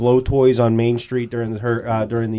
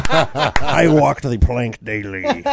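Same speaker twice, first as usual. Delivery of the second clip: pirate voice; much slower than usual. Pretend. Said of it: "Can, can we hear a pirate voice?".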